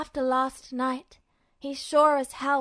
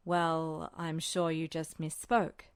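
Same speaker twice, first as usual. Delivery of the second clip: said slowly; 8 semitones lower, 5 dB quieter, slower than usual. A narrator's reading. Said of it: "he said slowly".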